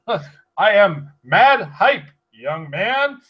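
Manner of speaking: put-on slow old man, loud and high; hammy old grandpa drawl. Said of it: "like a grandpa".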